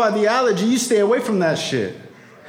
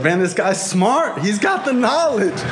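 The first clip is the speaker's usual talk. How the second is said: amazed; 2 semitones higher than usual. Real, not acted. Amazed at sponsor's wisdom.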